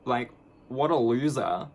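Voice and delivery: mock agreement, a hint of contempt; sarcastic. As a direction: drag it out with scorn. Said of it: "And I was like".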